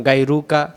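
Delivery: গায়রুকা with a final a; mispronounced গায়রুকা; wrong pronunciation. Shown as a demonstration. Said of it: "এখানে গায়রুক না".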